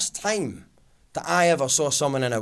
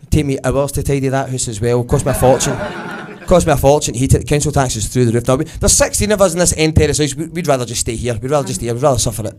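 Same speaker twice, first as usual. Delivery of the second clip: loud, put-upon Glasgow complaining; loud martyr moan; 8 dB louder than usual. Retold or imitated. Glaswegian family refusing the prize house, loud martyr moan. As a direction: moan it like a proud martyr, louder.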